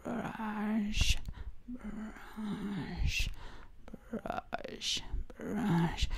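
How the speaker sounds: whispered zombie rasp; breathy undead whisper. Pretend. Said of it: "my voice is very zombie-ish".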